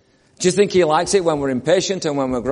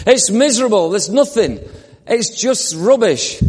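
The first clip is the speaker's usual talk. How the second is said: mock grumbling; 5 semitones higher, 3 dB louder than usual. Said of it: "this is what they're complaining".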